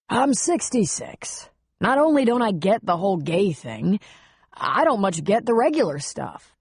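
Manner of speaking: hint of a weary older friend; understated reluctant confession; lightly voiced older man. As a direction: admit it reluctantly, in an older man's voice. Buck explains after a sigh.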